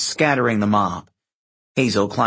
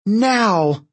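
urgent; 8 semitones higher, 3 dB louder than usual. A narrator's reading. Annabeth urges Percy to flee battle.

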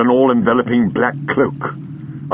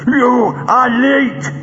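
high, slow, rasping snarl; dry rasping voice; 4 dB louder, much slower than usual. Acted. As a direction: force each word out through a rasp. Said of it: "Greel spoke in a dry, rasping voice".

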